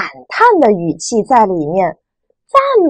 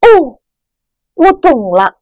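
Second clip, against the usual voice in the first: 哦 falling, bright understanding; an aha, it clicks; sudden realization; 6 semitones higher, 5 dB louder, slower than usual. Shown as a demonstration. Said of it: "一声赞叹". (恍然大悟的赞叹)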